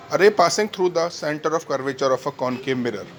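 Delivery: slow, measured teacher's dictation. Real, not acted. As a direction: read out slowly for note-taking. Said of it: "मैं धीरे धीरे बोलता हूँ".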